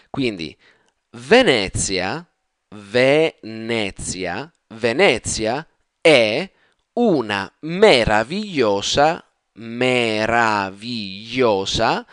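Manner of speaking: slow, syllable by syllable model reading; teacher reading slowly for students to copy; slow careful pronunciation. Shown as a demonstration. Italian teacher modelling slow reading for learners, slow and careful. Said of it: "And now I, uh, will just pronounce it".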